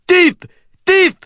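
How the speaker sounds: high, loud cry of accusation; accented bellow. A narrator's reading. Storekeeper calls out the fleeing boy, accented bellow. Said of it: "the storekeeper bellowed in a thick accent".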